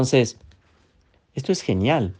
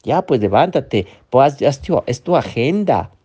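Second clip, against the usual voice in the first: pushy inner critic; 2 semitones higher than usual. Acted. The inner critic orders the seller to get up, mildly bossy. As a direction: push them like a demanding inner voice. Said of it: "la otra voz".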